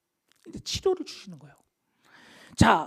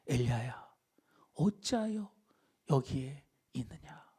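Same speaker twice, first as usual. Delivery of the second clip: hushed, low, tender question; gentle, soft voice; 6 semitones lower, 7 dB quieter than usual. Acted. Preacher as God asking Elijah why he is here, gentle hush. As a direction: ask softly, without any reproach. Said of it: "부드럽게".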